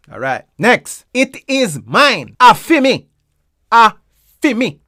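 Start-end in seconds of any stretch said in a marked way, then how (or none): 1.1-3.1 "A fi me" higher, "fi me" run together as one word; "fi me" as a single word, Jamaican Patois. Shown as a demonstration. Teacher showing learners the rhythm, Jamaican Patois. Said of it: "Fi me is one word".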